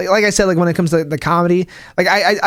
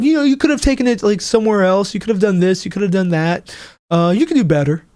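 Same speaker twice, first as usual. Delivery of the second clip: mock commenter; 2 semitones higher than usual. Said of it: "he's like".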